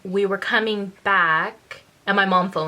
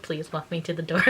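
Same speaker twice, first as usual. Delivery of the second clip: laughing plea; 3 semitones lower, 7 dB quieter than usual. Retold or imitated. Begging through laughter.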